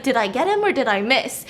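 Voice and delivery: mock-calm, matter-of-fact question; casual, unruffled retold question. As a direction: ask it calmly, lightly acting him out. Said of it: "And he's so calm".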